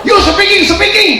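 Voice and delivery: very high, loud mock shout; Balinese broken English. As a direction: bark it like the officer. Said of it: "ngomongnya kayak tadi".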